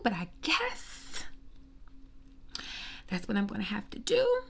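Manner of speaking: hushed and grudging; grudging whisper. Real, not acted. Sister forced to congratulate Russell, grudging whisper. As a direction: whisper it reluctantly.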